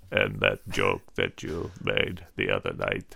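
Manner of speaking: lightly voiced toady buttering up the boss; fawning aide. Sycophant continues flattering.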